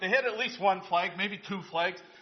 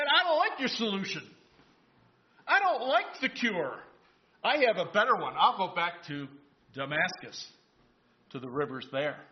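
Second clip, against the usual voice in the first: defiant Naaman. Acted. Naaman rejects the prophet's cure.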